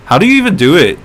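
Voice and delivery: high, loud bleating goat voice. Shown as a demonstration. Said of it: "you sound like a goat".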